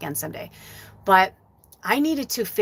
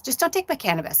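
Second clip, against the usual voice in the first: higher plea; 6 semitones higher, faster than usual. Retold or imitated. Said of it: "I said to Spirit".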